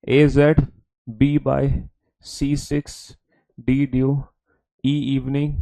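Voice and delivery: measured recitation, item by item with pauses; read-aloud demo. Shown as a demonstration. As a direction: read out each pair separately for students to copy. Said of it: "मैं आपको read करके दिखाता हूँ". (रुक-रुक कर पढ़कर दिखाते हुए)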